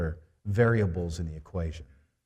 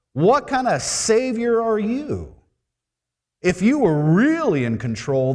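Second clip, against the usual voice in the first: high, loud pretend indignation; mock blaming Mary; 8 semitones higher, 7 dB louder than usual. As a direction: accuse the Messiah, hammed up. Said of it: "She didn't say".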